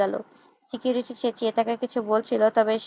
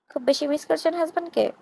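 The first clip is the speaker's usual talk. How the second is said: হাজব্যান্ডকে pushed higher and leaned on, teasing; stress on husband; 6 semitones higher than usual. A narrator's reading. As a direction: hit হাজব্যান্ডকে hard with a sly lift. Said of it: "husband শব্দটাতে একটা আলাদাই জোর দিল". (হাজব্যান্ডকে শব্দে আলাদা জোর)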